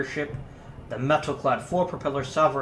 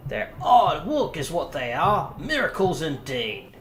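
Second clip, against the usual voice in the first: put-on Yorkshire accent; 3 semitones higher, 4 dB louder, slower than usual. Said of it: "I'm not doing the voice anymore".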